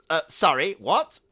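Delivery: loud, high, startled question; taken aback. Acted. Nephew startled by his uncle's remark. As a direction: recoil in disbelief.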